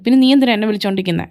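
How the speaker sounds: rapid, heated questioning; irritated rant. Acted. Scolding the caller who won't stop ringing, fast and heated. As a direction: fire it off fast, fed up. Angry reply to repeated calls.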